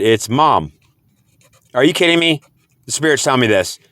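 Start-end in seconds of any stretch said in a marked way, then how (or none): 1.7-2.4 higher-pitched incredulous question. Retold or imitated. Asking the Spirit about the message, incredulous. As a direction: question it in mild disbelief.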